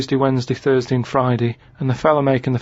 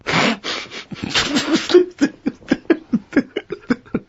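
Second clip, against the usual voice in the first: laugh; 12 semitones higher than usual. Real, not acted. Laughing at the joke.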